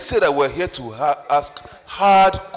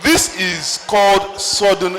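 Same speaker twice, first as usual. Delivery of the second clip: slow emphatic raised voice; 4 semitones higher, slower than usual. Real, not acted. Moderator over a heckler.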